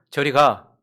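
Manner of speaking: loud, firm "go away"; firm dismissal. Retold or imitated. Mom firmly sends the child away, loud and stern. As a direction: shut the child out with a firm command. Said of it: "단호하게 이야기하기 시작했습니다".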